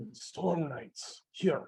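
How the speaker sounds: loud, high-pitched stage whisper. Narrating a game scene, speaker voices someone calling out in a loud whisper. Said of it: "you hear a voice kind of call out to you in a in a loud whisper".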